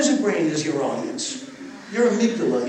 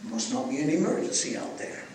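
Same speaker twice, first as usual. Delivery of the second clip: lizard brain voice; 6 semitones lower, 5 dB quieter than usual. Retold or imitated. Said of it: "the lizard brain goes".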